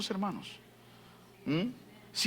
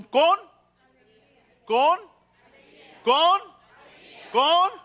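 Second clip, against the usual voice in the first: higher, louder hammered "con"; emphatic loud repetition; 7 semitones higher, 6 dB louder, much slower than usual. Real, not acted. Preacher pounding "con" at the congregation, loud.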